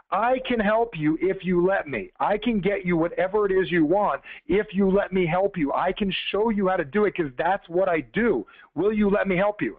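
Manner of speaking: slow, deliberate reassurance, word by word; retold plumber's solemn, measured offer of help; earnest promise. Magic plumber to a doubting customer, slow earnest promise.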